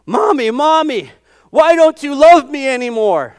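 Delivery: put-on slow, pleading little baby eagle; baby eaglet voice. Preacher imitating a hungry baby eagle, pleading. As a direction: whine like a hungry chick. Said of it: "And Steve Mianje goes".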